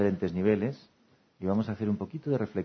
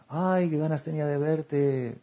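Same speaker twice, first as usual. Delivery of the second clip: heartfelt welcome; 6 semitones higher, slower than usual. Retold or imitated. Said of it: "O al revés".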